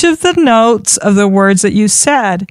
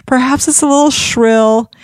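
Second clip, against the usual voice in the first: much higher, thin tone; 8 semitones higher than usual. Shown as a demonstration. Coach demonstrating a high-pitched speaking voice. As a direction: lift the voice up high and tight. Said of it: "speak maybe a little more like this".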